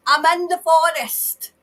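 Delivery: forceful channelled cry; retold shout. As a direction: shout her words back slowly. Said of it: "She's shouting".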